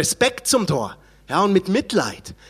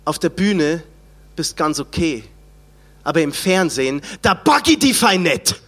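put-on Franconian accent; 3 semitones lower than usual. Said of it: "Habe ich das einigermaßen fränkisch ausgesprochen?".

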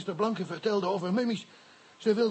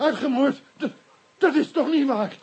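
shocked disbelief; 5 semitones higher than usual. Acted. Witness shocked by massacre news.

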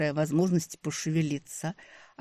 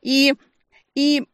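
flustered stammer; 11 semitones higher, 9 dB louder than usual. A narrator's reading. Stammering mid-accusation.

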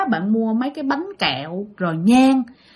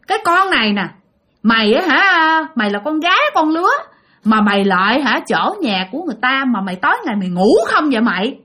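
mild retold scolding. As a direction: scold like a rude little kid, half-hearted. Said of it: "cái nó chửi".

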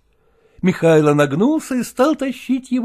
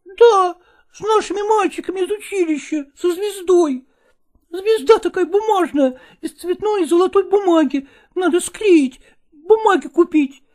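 put-on boy =129. Boy explains star.

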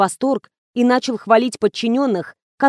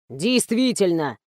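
slower, settled agreement; relaxed, relieved; 3 semitones lower, 4 dB quieter, slower than usual. A narrator's reading. Director calming down after Misha's reassurance, relaxed and slower. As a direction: ease off into calm agreement. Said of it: "расслабился режиссёр".

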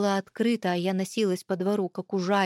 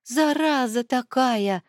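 relieved exhale; 4 semitones higher, 5 dB louder, much slower than usual. Acted. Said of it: "с облегчением выдохнула я".

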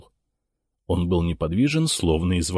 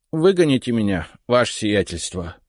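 dejected voice; 3 semitones higher than usual. Acted. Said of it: "упавшим голосом".

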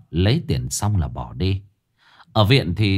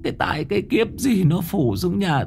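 crying lament; 10 semitones higher than usual. A narrator's reading. Old woman laments to heaven over her family's fate, crying. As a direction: wail to heaven, sobbing. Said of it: "Bà cụ mếu máo".

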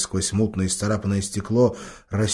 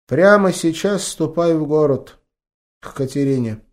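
lightly voiced grandma; 7 semitones higher, 5 dB louder than usual. A narrator's reading. Grandma sends grandson away.

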